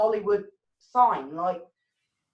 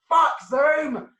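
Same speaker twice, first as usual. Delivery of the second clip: slower, louder joking curse; mock outburst; 5 semitones higher, 6 dB louder than usual. Host cursing Zoom for the broken live stream, slow and loud. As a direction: vent at the app, half laughing.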